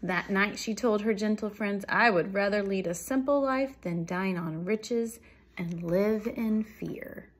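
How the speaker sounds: projected storybook narration, slowing at the end; measured picture-book ending; story read-aloud. A narrator's reading. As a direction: deliver the moral clearly to young listeners. Reads a story to children.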